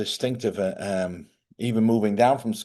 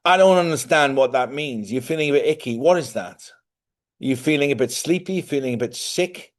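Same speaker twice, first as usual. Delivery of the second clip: retold mild exasperation, pitched higher; exasperated questioning; 4 semitones higher, 3 dB louder than usual. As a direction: press for a clear answer. Retold exasperated questioning of his wife.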